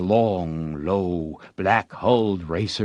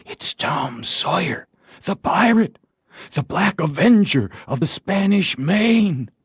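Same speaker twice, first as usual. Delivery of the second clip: much higher, swelling with pride, not whispered; awed whispered fame; 9 semitones higher than usual. A narrator's reading. Tom imagines villagers naming him, soaring proud and higher. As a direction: crown the name with rising glory. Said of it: "the whisperings".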